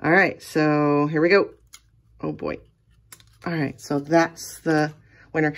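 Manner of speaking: nervous shaky voice. Real, not acted. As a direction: voice shaking with nerves. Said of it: "my voice is shaking 'cause I'm shaking".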